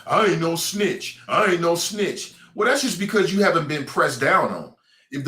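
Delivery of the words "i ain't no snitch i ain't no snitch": mock tough guy. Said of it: "people kill me with all that snitch talk".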